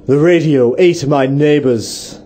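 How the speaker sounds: slow radio tagline; deliberate mock station slogan; slogan read. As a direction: announce it slowly as a promo. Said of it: "I'll do the first bit".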